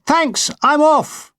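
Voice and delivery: very high, slow called farewell; pilot's shout. Retold or imitated. Pilot flying over to say goodbye, high drawn-out shout. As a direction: sing it out from the sky. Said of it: "fly over us and shout".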